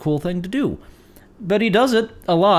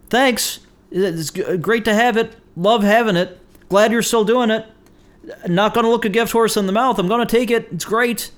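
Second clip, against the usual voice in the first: higher-pitched, piling up polite reassurances; mock gratitude for an unwanted gift; acted dutiful thanks; 5 semitones higher than usual. Overloaded fan thanking the band, dutifully appreciative.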